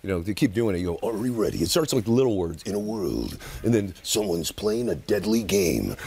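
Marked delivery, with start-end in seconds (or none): 1.1-1.6 deep trailer announcer; a touch of trailer boom; low dramatic preview voice; movie trailer voice. Retold or imitated. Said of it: "that voice was in you". 2.6-3.4 deep hushed trailer opener; low dramatic trailer announcer; movie trailer voice. Retold or imitated. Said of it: "that voice was in you". 4.0-6.0 slow deep trailer announcer; low, slow dramatic preview voice; movie trailer voice. Retold or imitated. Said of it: "that voice was in you".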